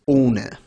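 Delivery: ohne said "OH-nuh", with a long oh; ohne, slow, no umlaut; German pronunciation. Shown as a demonstration. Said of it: "German word for without is".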